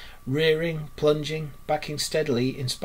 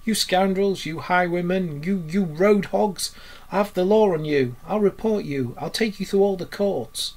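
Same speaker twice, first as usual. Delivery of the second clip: raised, indignant storybook shouting; angry shout; 5 semitones higher, 4 dB louder than usual. A narrator's reading. Rat threatens the road hogs with the law, angry shouting. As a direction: rage at them, voice pitched up. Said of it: "he shouted, shaking both fists".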